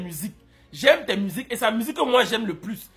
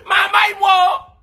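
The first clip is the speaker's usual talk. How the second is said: hammed-up begging wail, higher and louder; mock crying plea; 9 semitones higher, 6 dB louder, slower than usual. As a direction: beg him like a crying child, overdone.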